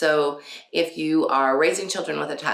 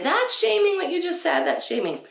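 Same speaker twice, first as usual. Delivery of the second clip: much higher, indignant mock protest; objecting critic. A critic objecting to the mom's words, high indignant mock. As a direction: mimic a scandalised critic. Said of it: "somebody might say".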